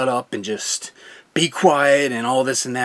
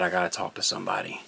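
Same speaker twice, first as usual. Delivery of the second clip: urgent; 4 semitones lower, 6 dB quieter, faster than usual. Retold or imitated. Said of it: "walked up there and I said".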